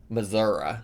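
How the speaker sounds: "Missouri" said as mə-ZOR-uh with a final uh; Missouri pronunciation. Shown as a demonstration. Quoting the teacher's way to say the state, "Missouri" ending in uh. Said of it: "when Missourians call it Missouri".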